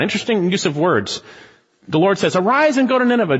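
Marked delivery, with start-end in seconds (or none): 2.4-3.4 raised, quick command to go; higher, brisk divine command; commanding call. Acted. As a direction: call him out to Nineveh. Voicing the Lord's command.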